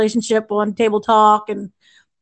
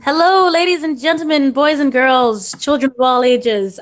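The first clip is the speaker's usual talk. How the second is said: ringmaster; 2 semitones higher than usual. Acted. Podcast host opens like a showman.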